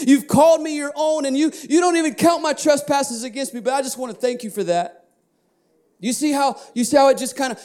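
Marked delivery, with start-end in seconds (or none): 0.1-5.1 sample confession prayer. Shown as a demonstration. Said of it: "Confession just comes out".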